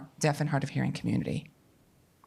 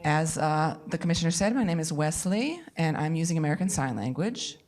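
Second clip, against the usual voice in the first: translation voice over. Real, not acted. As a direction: sign language interpreter voicing. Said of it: "you can hear the voice of a female interpreter who is interpreting into English for".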